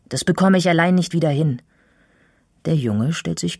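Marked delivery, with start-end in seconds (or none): 0.1-1.6 raised, louder cross protest; angry. A narrator's reading. Girl unable to fix her bike alone, angry. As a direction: protest angrily in a lifted voice. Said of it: "sage ich wütend".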